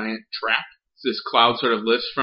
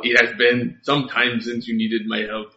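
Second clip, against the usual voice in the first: put-on a light Russian accent, steady; 3 dB louder than usual. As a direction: say it as the Russian ghost. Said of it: "You just did. Keep going".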